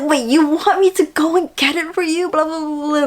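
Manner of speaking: high panicky imitation of the drama guy; a hint of a guy freaking out over pads; mock freaking out. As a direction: lightly play a flustered guy. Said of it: "freaking out and everything".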